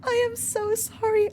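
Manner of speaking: very high, squeaky apology; high-pitched emotional wail; freaking out. Real, not acted. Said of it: "I'm freaking out".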